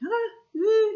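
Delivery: high imitated moan; wordless, strained high groans; stressed groan.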